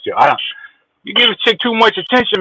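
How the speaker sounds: normal talking voice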